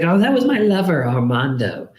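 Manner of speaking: high, light grandmother voice; old lady voice. Retold or imitated. Grandmother's voice in retold story.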